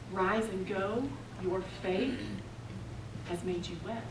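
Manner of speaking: soft, low voiced quote of Jesus; gentle blessing. Jesus gently sends healed man off.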